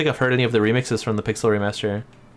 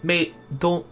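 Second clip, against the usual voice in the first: higher, hammed-up Scottish accent; Scottish accent attempt; 5 semitones higher than usual. Gamer warming up a dwarf voice, mock Scottish accent. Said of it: "How do you do a Scottish accent?".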